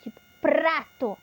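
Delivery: "prato" with the R trilled clearly; tongue trilling the R in "prato"; trilled R demo. Shown as a demonstration. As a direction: roll the R in "prato". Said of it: "treme a língua".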